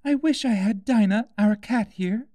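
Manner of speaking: put-on high, light girl's voice, wistful; a young girl missing her cat; Alice, wistful. A narrator's reading. Alice's voice in the story.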